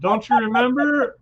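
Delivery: mocking lecture. Friend scolding Paxton for leaving, high slow mock nag. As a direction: preach at him in a squeaky, drawn-out scold.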